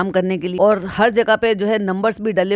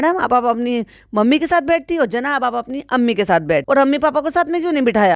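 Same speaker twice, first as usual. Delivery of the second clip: mock family chatter; 3 semitones higher than usual. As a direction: rattle it off like a nosy relative.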